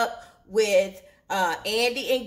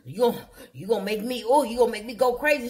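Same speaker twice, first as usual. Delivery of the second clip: fast, sputtering mock outrage; hammed-up flustered rant; acting crazy; faster than usual. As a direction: stammer like he's losing it, imitating him. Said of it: "he started acting all crazy".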